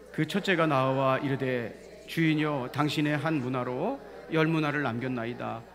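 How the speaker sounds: measured, projected Bible reading; scripture reading. Acted. Preacher leads congregation in Luke nineteen, measured reading.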